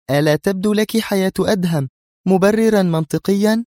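high, heated challenge; indignant. A narrator's reading. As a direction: throw the question back angrily. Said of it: "قالت منى في حنق". (بحنق)

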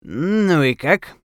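high, slow, drawn-out dentist's inquiry. A narrator's reading. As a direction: ask like a dentist coaxing a patient. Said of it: "голосом зубного врача".

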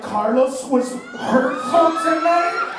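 slow, loud, hammed-up hurt voice; mock wounded complaint. Comic mocking an offended fan, slow and hammed-up. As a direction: draw out the fake hurt feelings.

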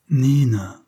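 the name said with tenderness; tender. Acted. Narrator says Nina's name to her with tenderness. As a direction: let affection fill her name. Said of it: "en mettant dans son prénom plus de tendresse".

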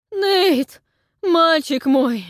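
put-on high, slow, loud anxious cry of an old man; alarmed old historian. A narrator's reading. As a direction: call out to the boy in alarm. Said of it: "раздался встревоженный голос Анхеля".

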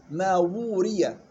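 ووري slowly, wāw lengthened two counts; two-count madd. Shown as a demonstration. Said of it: "بدك تعطي مد تمكين".

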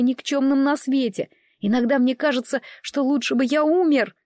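put-on young brother blurting out his hurt; lightly voiced boy. Child Day pours out reproach. (слегка детский голос, с обидой)

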